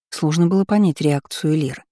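ordinary delivery

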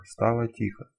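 ordinary delivery

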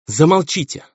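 high-pitched pained demand; distressed insistence. A narrator's reading. Baroness covering her face silences her husband, distressed.

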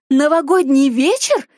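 slow, disbelieving echo of the phrase; incredulous echo. Acted. Mother mocks her daughter's excuse, incredulous. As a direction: repeat вечер back with a scornful rising question.

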